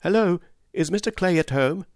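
high-pitched call at a door; shouted call. A narrator's reading. Joe calling at Mister Clay's door, shouted inquiry. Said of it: "Joe knocked at the door and shouted".

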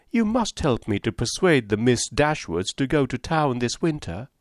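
high, breathless society gossip; chattering Mrs Palmer. Acted. Mrs Palmer prattling to Eleanor and Marianne, high and chirpy. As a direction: prattle on brightly without pausing.

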